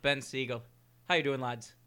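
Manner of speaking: light mock-Irish greeting; Irish accent. Host greeting the lads on air, Irish accent. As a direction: greet them with a put-on Irish lilt. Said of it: "I'm gonna put on my Irish accent".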